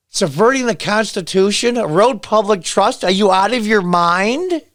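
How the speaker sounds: mock her words in disbelief; incredulous outrage. Real, not acted. Vlogger throwing Pelosi's words back, incredulous outrage.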